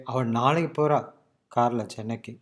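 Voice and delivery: அவ நாளைக்கு போறா carries the point, pause before கார்ல சென்னைக்கு; stress first, slow after. Shown as a demonstration. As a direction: let கார்ல சென்னைக்கு fall away as unimportant. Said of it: "slowing down during கார்ல சென்னைக்கு".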